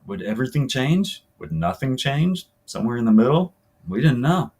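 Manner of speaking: conversational first-person story reading; interview monologue. Acted. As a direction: tell it like a player recalling the season. Reads novel's player interview aloud.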